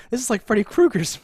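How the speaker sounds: high, loud put-on voice; imitated calling out. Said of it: "I like him calling out".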